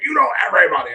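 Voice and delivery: lightly mimicked kid complaint; complaining kids. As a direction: imitate kids griping at a parent. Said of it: "my kids hate it because they're like".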